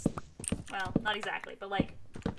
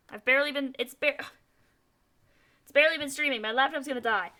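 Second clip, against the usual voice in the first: exasperated; 4 semitones higher, 7 dB louder, faster than usual. Real, not acted. Alarmed about dying laptop.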